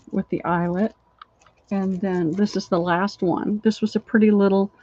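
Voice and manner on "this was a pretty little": wheezy voice. Real, not acted. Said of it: "I'm wheezing".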